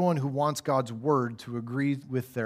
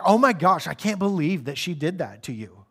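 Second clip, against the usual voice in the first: mock gossip sympathy. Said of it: "You do it well".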